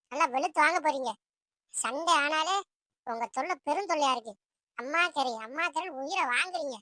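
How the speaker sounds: weary grumbling mother; exasperated mother. Acted. Mother complains about children wanting meat every Sunday, exasperated. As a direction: grumble at the children's constant demands.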